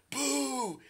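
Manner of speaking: high, drawn-out mock boo; imitated heckling boo. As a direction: boo like kids at a corny joke. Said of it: "and they'll be like".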